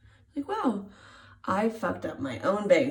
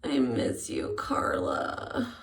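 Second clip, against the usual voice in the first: whispering; 7 semitones lower, much slower than usual. Real, not acted. Whispered to absent stylist.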